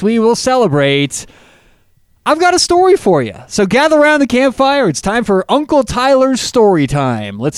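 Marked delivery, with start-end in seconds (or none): 2.2-7.4 high, sing-song campfire storyteller; storyteller uncle voice. Pretend. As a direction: play the cheesy uncle gathering kids. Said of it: "You might wanna ditch the Uncle Tyler".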